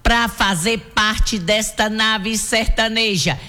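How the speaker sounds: show-opening radio patter with a long held finish; announcer's invitation building to a sustained ending. Acted. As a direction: launch the show, stretching the last words right out.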